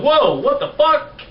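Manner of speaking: high, slow shocked gasp of disbelief; shocked whoa. Retold or imitated. Stranger sees wheelchair user stand, shocked whoa. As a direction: act out a stranger floored by what they see. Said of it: "they're like".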